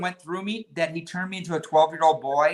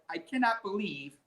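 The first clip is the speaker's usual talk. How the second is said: worked-up thought; 3 semitones higher, 9 dB quieter than usual. Retold or imitated. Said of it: "getting all worked up in my head".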